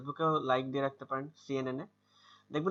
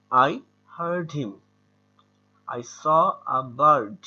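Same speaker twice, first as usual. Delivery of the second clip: "heard" and "bird" drawn out long and slow, louder; slow long-vowel demo; 6 dB louder, much slower than usual. Shown as a demonstration. Teacher to students, slow, loud long-vowel drill. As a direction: stretch every vowel in "I heard him, I saw a bird" slowly. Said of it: "তাহলে long অ্যা".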